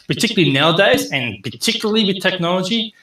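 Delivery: demonstrating the energy a good pitch needs; enthusiastic. Shown as a demonstration. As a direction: pump up the energy to show the passion. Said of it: "you need to have passion, enthusiasm".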